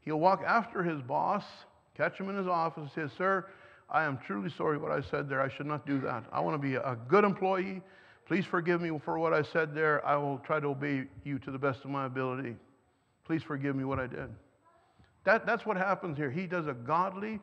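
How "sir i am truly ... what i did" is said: humble apology. Acted. Employee apologizing to his boss.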